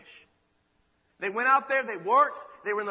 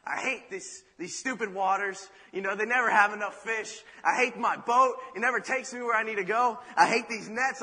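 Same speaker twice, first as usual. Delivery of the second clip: griping and building louder; complaining about his lot, getting louder; frustrated lament; 2 semitones higher, 5 dB louder than usual. Acted. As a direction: fisherman venting over empty nets, frustrated grumble. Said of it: "lamenting about his life".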